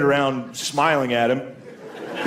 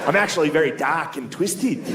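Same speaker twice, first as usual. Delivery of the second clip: mock Australian goth insisting on himself; earnest goth with an Australian accent; comic impression of an Australian accent; 3 semitones higher than usual. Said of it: "You're Australian. You sound funny".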